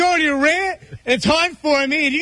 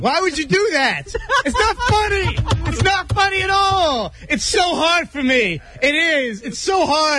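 upset protest; 3 semitones higher than usual. Real, not acted.

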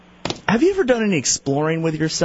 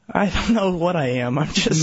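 mumbling. Real, not acted. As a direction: mumble it under your breath. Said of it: "Now you're just mumbling".

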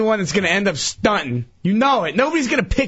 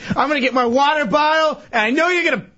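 higher-pitched, agitated accusation; worked up; 5 semitones higher, faster than usual. Real, not acted. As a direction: protest as if about to be tricked. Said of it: "Calm down".

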